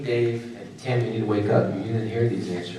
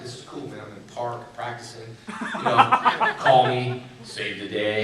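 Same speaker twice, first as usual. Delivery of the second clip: laughing carefree loner; 4 dB louder, slower than usual. Retold or imitated. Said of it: "I was just like".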